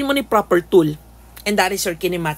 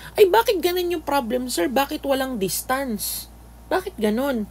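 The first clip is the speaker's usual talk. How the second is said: high-pitched, mock-baffled student protest; complaining student; 5 semitones higher than usual. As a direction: act out a student questioning the problem, pitched up. Acted student complaint to teacher. (nagrereklamong estudyante)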